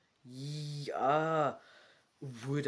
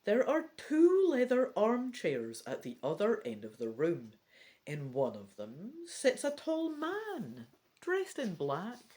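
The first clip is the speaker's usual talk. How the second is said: story narration; 2 semitones higher than usual. Acted. Reads gamebook text aloud.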